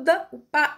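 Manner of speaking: "pá" and "da" as brief, separate beats; short quick syllables. Shown as a demonstration. Teacher showing short syllables, "pá" and "da" kept brief. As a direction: tap out "pá" and "da" briefly. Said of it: "o dá bem rapidão".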